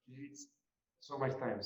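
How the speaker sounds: ordinary talk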